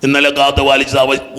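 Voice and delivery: low droned routine prayer; mock rote praying; insincere recited prayer. Shown as a demonstration. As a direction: rattle off a prayer without heart, pitched low. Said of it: "ആത്മാർത്ഥതയില്ലാത്ത വാക്കുകളാണ്".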